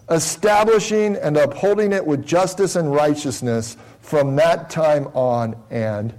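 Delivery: measured, emphatic scripture reading. Real, not acted. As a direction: read the verse out with solemn emphasis, drawing out key words. Reads scripture aloud.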